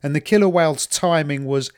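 trying to tell it without laughing; holding back laughter. Real, not acted. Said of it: "trying to say this without laughing".

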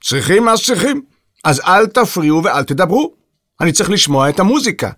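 high, irritable concession; testy and put-upon; grudging. A narrator's reading. Grumpy composer demands quiet.

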